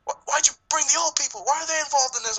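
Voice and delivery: high, fast rattled pleading; lightly voiced desperate villain; panicked killer. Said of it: "he's like".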